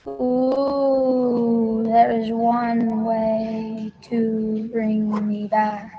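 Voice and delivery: slow, lightly ghostly moan; a hint of a haunting statue; unearthly voice. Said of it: "a ghostly voice emanated from the statue".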